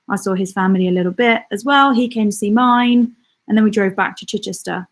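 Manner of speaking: winded, short of breath. Real, not acted. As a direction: speak while catching breath. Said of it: "I'm really out of breath".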